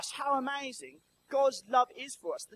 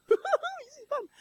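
put-on high, slow delighted baby voice; baby gurgling happily on stage; much slower than usual. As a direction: play the baby enjoying itself. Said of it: "Baby's going".

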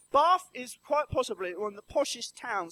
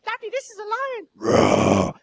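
put-on high, slow excited child voice; piping little kid announcing a lion; little son's voice; 10 semitones higher, 10 dB louder, slower than usual. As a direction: imitate a small boy proudly naming the lion. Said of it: "he keeps going".

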